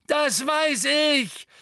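bellowed. A narrator's reading. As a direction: roar it back in rage. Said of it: "brüllte Neville". (wütend gebrüllt, viel höher und lauter)

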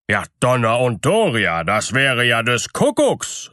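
miller's hearty amazed outburst; astonished exclamation. A narrator's reading. Miller hears of the hidden cake, exclaiming in surprise. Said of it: "rief der Müller".

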